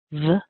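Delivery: "v" as a short, weak "vuh"; brief unstressed "v" with a neutral vowel; isolated weak first syllable "v". Shown as a demonstration. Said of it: "are not so strong".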